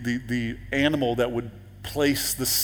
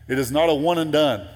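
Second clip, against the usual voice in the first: louder, higher, with "not" punched hard; emphatic preaching; 4 semitones higher, 7 dB louder than usual. Real, not acted. Preacher insisting to the congregation, loud with stress on "not". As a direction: drive it home with force on "not". Preacher hammering home a point.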